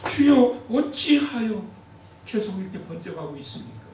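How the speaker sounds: 부르짖다 잦아드는 기도; 외치는 탄식. Acted. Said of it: "이와 같은 탄식이". (매일 기도하는 성도들, 외침에서 잦아드는 탄식)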